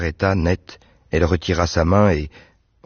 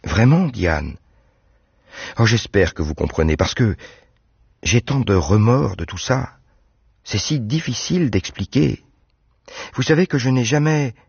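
young woman's voice, higher, lightly played; a bright girl chatting about her doves; Anne's voice; 4 semitones higher than usual. Anne apologises.

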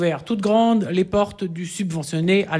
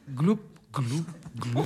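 soft gurgling fade; 5 semitones lower, 8 dB quieter, slower than usual. A narrator's reading. La fin engloutie.

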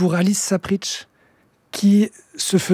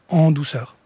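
en douceur breathed in a whisper; softly whispered; 3 semitones lower, slower than usual. Shown as a demonstration. Singer describing his gentle cover of a song, whispered. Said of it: "de la reprendre très en douceur".

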